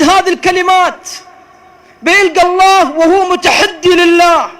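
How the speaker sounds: loud, high fervent sermon; preaching at full force. Real, not acted. Preacher warning lovers who defy God, fervent shouting. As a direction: thunder the warning at them.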